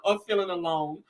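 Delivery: whiny mock sob voice, mimicking Destiny; hammed-up teary whimper; mock crying. Mocking a reality star crying on her livestream. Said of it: "just start crying".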